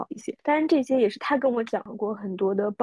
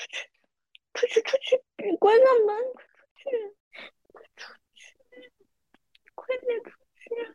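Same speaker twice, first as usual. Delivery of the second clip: mock very high, broken, halting, tearful angry sobbing; 14 semitones higher than usual. Recalling early marriage, the speaker acts out ordering her husband out: imitating crying in anger. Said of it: "气哭了".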